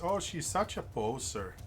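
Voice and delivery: put-on slow Russian-accented sneer; a teasing Russian accent. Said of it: "hear a Russian voice".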